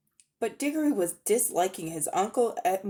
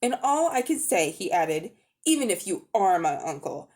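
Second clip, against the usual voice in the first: put-on a touch of heated anger from the boy, slightly louder; angry boy; 4 semitones higher, 4 dB louder than usual. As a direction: accuse him of cowardice, indignant. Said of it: "flaming with anger now".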